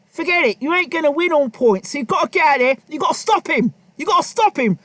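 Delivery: imitating a trainer firing up his fighter; Tony Sims pep talk. Trainer Tony Sims urging Ryder between rounds, mock pep talk. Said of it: "I'll be telling him now".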